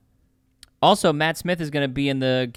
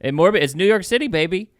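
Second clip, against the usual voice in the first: mock New York accent; 3 semitones higher, 4 dB louder than usual. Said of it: "As they say in New York City".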